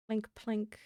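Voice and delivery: soft little plink noises; tiny blink plink. Pretend. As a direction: mouth the placing sound, softly. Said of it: "sound effects unnecessary".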